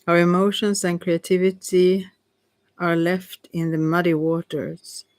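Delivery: measured reading, broken by pauses; halting read-aloud. Real, not acted. Reader sharing a card's meaning, measured and halting. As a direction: read the card out carefully, phrase by phrase. Reads card text aloud.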